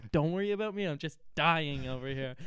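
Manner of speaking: mock self-pitying diva; guilt-trip them while waving it off; lightly acted martyr; passive aggressive. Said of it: "It was so passive aggressive".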